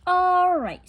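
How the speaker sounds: high, loud cheerful agreement; cheerful yes. A narrator's reading. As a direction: agree gladly. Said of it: "said Amelia Bedelia".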